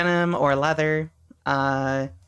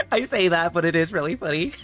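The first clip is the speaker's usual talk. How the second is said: laughing. Real, not acted. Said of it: "I can't stop smiling".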